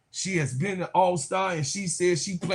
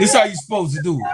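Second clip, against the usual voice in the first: fast and loud, crowing; gleeful shout; 6 dB louder, much faster than usual. Real, not acted. Vlogger crows at Chicago over the welcome, fast gleeful shout. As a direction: yell it out like a victory lap.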